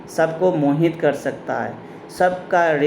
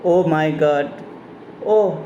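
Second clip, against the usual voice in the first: mock pain; much slower than usual. Shown as a demonstration. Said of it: "हम लोग कभी दर्द में भी ओह कह सकते हैं".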